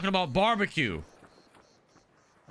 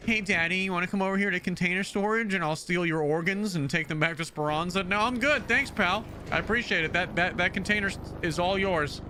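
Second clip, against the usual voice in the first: creepy stranger; 4 semitones higher than usual. Pretend. Acting out a creepy game stranger and reply.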